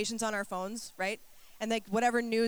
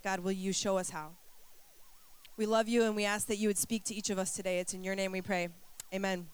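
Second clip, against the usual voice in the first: prayer. Acted. Leads congregation in prayer.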